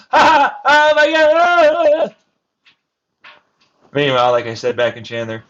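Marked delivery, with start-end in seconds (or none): 0.1-2.1 loud, high laughter with oh my God; laughing fit. Real, not acted. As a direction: crack up helplessly.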